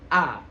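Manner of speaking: "A" wide open and clear; A terbuka lebar. Shown as a demonstration. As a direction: open the mouth fully for "A". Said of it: "dibuka dengan lebar". ("A" dibuka lebar)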